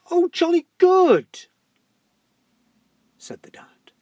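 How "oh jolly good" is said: high, slow jolly toff; posh dad voice. Acted. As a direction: ham up a jolly posh father.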